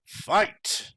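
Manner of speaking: loud, short battle yell. Acted. Henry Freeman rallies the people, loud yell. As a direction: bark the order to fight. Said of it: "Henry Freeman yelled".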